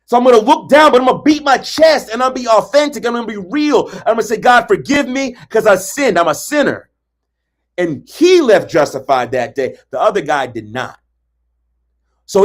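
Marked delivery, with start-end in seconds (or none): 0.0-6.9 ashamed confession. Retold or imitated. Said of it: "He said".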